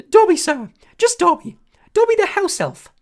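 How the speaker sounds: high, loud squeaky elf voice; a small eager servant creature, awed; squeaky house elf. A narrator's reading. House elf greeting Harry, high squeaky and awed. Dobby voice.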